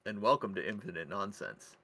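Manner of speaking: measured, swinging announcer delivery; podcast host intro. Acted. Host welcoming listeners to Infinite Nonsense in an announcer style. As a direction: present it like a show host.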